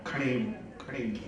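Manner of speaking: soft ringing knock sound on a pot; imitated tapping sound. Shown as a demonstration. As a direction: mimic tapping a clay pot, quietly. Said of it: "એવા ખખડાવે".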